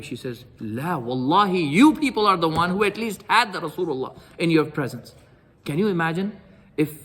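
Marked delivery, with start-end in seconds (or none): 0.6-5.2 slow oath, then indignant rebuke; retold fury. Asma answers Umar's taunt, mildly acted fury. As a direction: imitate an offended woman hitting back. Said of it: "She's so angry".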